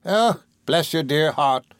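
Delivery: mild, slow, grateful outcry; crying out fondly. A narrator's reading. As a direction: draw it out with fond feeling. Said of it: "cried Peggotty".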